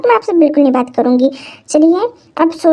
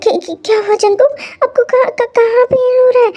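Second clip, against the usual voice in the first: worried mother; 4 semitones higher than usual. Acted. Mother panics over child's pain.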